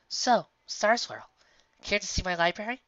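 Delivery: a proud invitation to her guest; Twilight. Acted. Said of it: "Twilight said".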